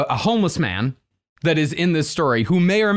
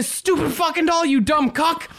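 squeaky puppet voice; 10 semitones higher than usual. Acted. Pinocchio story, silly voice.

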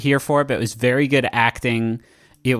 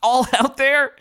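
high-pitched, stunned outburst; worked-up kid-like squeak of disbelief; Jake Cool; 9 semitones higher than usual. Acted. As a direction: blurt it out high and incredulous. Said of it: "I couldn't remember what she says".

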